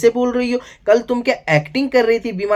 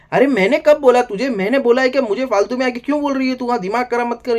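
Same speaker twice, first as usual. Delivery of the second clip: angry retort; 5 semitones higher, faster than usual. Retold or imitated. Zeeshan scolding Tania for nagging him, angry. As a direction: snap back like you're fed up with her nagging.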